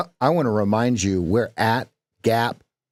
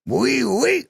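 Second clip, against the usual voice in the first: much higher squeaky mock French; mock French surprise; 13 semitones higher, slower than usual. Coach mocks surprised French speech. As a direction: sound surprised, very high. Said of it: "always surprised at the end of the sentence".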